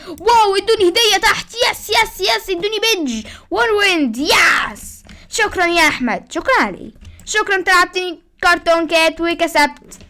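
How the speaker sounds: thrilled thanks for the reward; excited cheering. Real, not acted. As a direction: celebrate the gift with glee.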